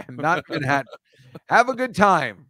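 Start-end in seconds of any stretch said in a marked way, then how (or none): 1.5-2.5 half-joking taunt; mock hostile send-off. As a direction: sarcastically cheer them off, then trail into insults. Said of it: "maybe not say it like that".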